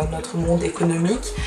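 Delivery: normal talking voice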